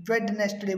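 "वेडनेसडे" as wed-nes-day, d sounded; common mispronunciation. Shown as a demonstration. Teacher quoting students' mistake, d pronounced. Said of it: "ये वेडनेसडे नहीं है".

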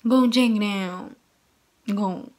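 slow, drawn-out Miranda imitation; a light Miranda Sings impression. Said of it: "I love talking like Miranda".

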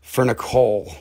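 slow, deliberately tame suburban voice; slow down and sound proper and harmless; normal suburban voice. Pretend. Promising the chat to behave, in a slow, tame suburban voice. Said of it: "talk in my normal suburban voice".

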